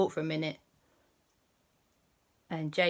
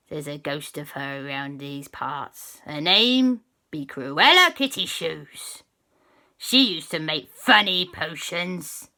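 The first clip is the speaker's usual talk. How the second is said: pirate captain voice; 5 dB louder than usual. Acted. Pirate captain to the children about his old witch. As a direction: spin the yarn like a gruff pirate.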